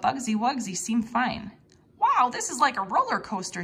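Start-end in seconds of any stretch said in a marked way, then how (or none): 2.0-3.6 a thrilled, loud little cry; excited exclaim. Acted. Girl cheers the fast van ride, thrilled and loud. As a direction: sound like she loves the wild ride. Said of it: "she exclaimed".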